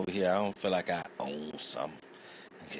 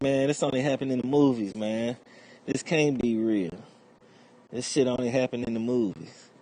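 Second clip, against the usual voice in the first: loud disbelief; 6 semitones higher, 7 dB louder than usual. Retold or imitated. Protesting to cop.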